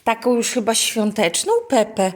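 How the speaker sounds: mother chats with her little daughter about her toy. Real, not acted. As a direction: coax the little one along. Talking to toddler.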